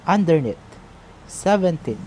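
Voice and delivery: put-on under-NEATH, seven-TEEN, stressed on the final syllable; last-syllable stress. Shown as a demonstration. Teacher giving anapest examples, last-syllable stress on underneath and seventeen. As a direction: land hard on the end of underneath and seventeen. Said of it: "we're also putting the stress".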